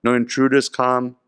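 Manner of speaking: guard dog making excuses; dog Gopal refusing. Retold or imitated.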